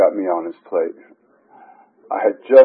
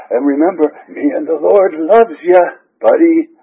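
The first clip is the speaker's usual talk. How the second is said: higher, louder mock sign-off of a sponsor; sponsor's sign-off; 6 semitones higher, 4 dB louder than usual. Sponsor signing off a phone call to his sponsee, imitated sign-off. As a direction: lightly imitate a sponsor's emphatic parting line. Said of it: "we would sign off and say".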